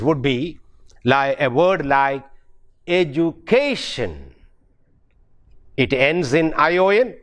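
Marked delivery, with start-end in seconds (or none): 2.9-4.3 "education" with the weight on "ca"; measured edu-CA-tion; stress on penultimate syllable. Shown as a demonstration. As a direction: lean on the "ca" in "education". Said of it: "The syllable just before the last penultimate".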